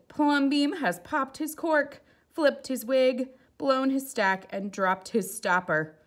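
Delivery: high, loud scandalised townsfolk; shocked neighbours tutting over him; gossiping neighbours. Acted. Neighbours scandalised by his house, high and loud.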